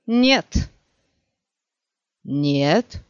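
stubborn executioner's triple no; emphatic refusal. A narrator's reading. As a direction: refuse flatly, building to a shout.

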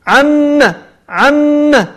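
عم said high, meem doubled, ending short without madd; doubled meem, short vowel. Shown as a demonstration. Teacher showing students the correct word, short final vowel. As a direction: hold the doubled m in عم, then a short a. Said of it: "والميم هذه مشددة مفتوحة".

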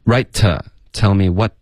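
"Right" and "what" each trailed by a light "tuh"; unrounded, weak "tuh" after "what". Shown as a demonstration. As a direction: relax the t after "Right" and "what" into a short schwa. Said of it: "这是一个弱度特".

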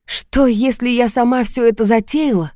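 a wry half-laugh in a different voice; with a chuckle. A narrator's reading. Lili mocks Sergei's suspicion with a chuckle. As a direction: finish it with a little scoffing laugh. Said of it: "со смешком закончила я".

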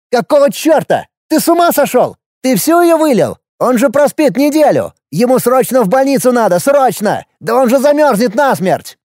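very high, frantic protest; horrified, urgent exclaiming; alarmed outburst. A narrator's reading. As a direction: panic and berate, pitch right up. Horrified brother learns of the poisoning.

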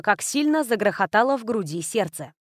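ordinary delivery, nothing marked

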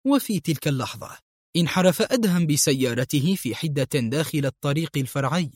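usual speaking voice

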